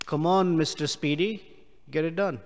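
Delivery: sarcastic Come on, Mister Speedy; sarcastic jab. Shown as a demonstration. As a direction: needle them with fake encouragement. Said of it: "this is sarcasm".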